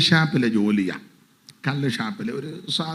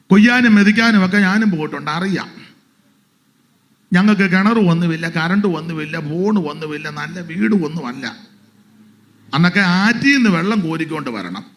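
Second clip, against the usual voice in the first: louder sermon voice building up; rising into preaching; 3 semitones higher, 7 dB louder than usual. Acted. Pastor telling congregation of childhood hardship, building sermon. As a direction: lift it back toward the pulpit.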